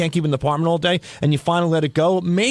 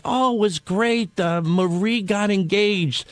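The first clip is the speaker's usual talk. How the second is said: lightly voiced waitress, drawn-out and lifted; diner waitress; 2 semitones higher, slower than usual. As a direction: slowly share gossip as a counter lady. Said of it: "the lady behind the counter".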